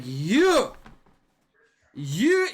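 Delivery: high, loud cries of recognition; drunken accusing shout. Acted. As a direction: point and bellow drunkenly.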